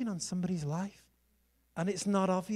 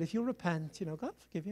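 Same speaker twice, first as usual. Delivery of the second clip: soft, lower retold counsel; gentle reassurance; 4 semitones lower, 9 dB quieter, faster than usual. Evangelist offering the girl forgiveness, gentle reassurance. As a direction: let it drop soft and low, as if to her alone.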